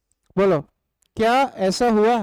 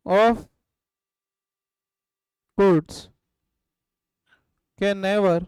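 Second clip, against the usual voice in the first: word by word with long gaps for writing; slow dictation; much slower than usual. Shown as a demonstration. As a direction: dictate slowly, one word at a time. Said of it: "लिखो". (छात्रों को धीरे-धीरे लिखवाते हुए)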